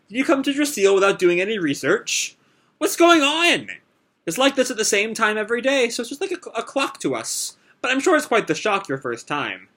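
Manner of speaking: lightly voiced old lady, amused; chatty old lady. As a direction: tease the travelers kindly. Old lady speaks to travelers.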